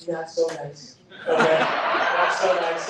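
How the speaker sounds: lightly imitated politician's catchphrase; a hint of mock-presidential delivery, second take drawn out; Donald Trump. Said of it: "as President Trump would say".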